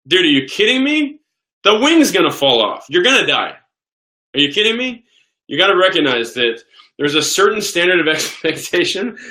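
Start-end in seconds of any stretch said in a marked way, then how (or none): 0.1-5.0 high, incredulous mock protest; exasperated traveler, pitch jumping up; acted frustration. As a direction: argue back in exaggerated disbelief. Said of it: "people get frustrated".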